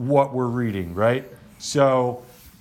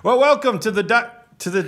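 usual speaking voice

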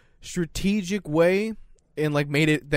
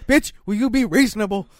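exasperated; 6 semitones higher, 5 dB louder than usual. Retold or imitated. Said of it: "why I get mad at you".

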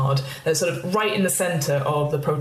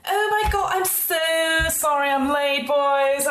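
put-on much higher gushing young woman; Jessica; 9 semitones higher, slower than usual. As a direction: breeze in apologising and gushing. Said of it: "in walks Jessica".

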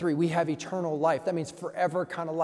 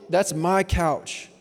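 put-on slow, drawn-out, louder kid's claim; possessive whine; 6 dB louder, much slower than usual. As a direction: stretch each word like a sulky child.

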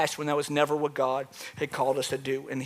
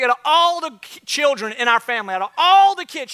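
high-pitched, incredulous mock aunt; emphatic aunt impression; 8 semitones higher, 5 dB louder than usual. Aunt on the phone to her nephew, emphatic and high. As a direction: imitate an aunt stressing every word, pitched way up.

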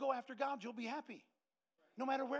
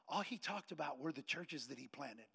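slow, soft, lower retold reply; subdued explanation; 6 semitones lower, 6 dB quieter than usual. Wife explains her tears after the meeting, subdued. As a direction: explain it quietly and slowly.

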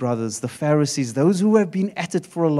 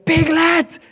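put-on toddler voice; 11 semitones higher than usual. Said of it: "the different characters would appear".

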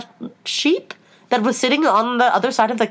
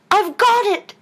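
high, triumphant cry; pitched-up gleeful exclamation; 11 semitones higher, 4 dB louder, slower than usual. A narrator's reading. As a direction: crow it in victory. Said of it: "cried in a triumphant tone".

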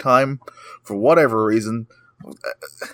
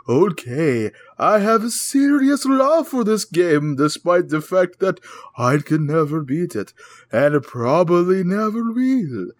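slow, high, drawn-out spooky reading; scary voice; 4 semitones higher, slower than usual. Pretend. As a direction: read it like a ghost story. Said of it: "Read us in a scary voice".

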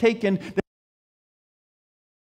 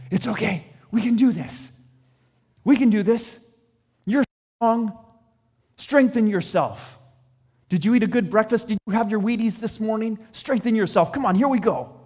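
nervous pep talk; 2 semitones higher than usual. Pretend. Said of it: "everybody's going".

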